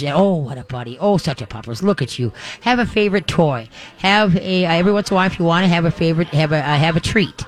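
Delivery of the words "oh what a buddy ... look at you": tender praise. Shown as a demonstration. Host demonstrating sweet talk to a returning dog. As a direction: coo to the dog as you rub it. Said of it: "Give 'em a ma-, a massage".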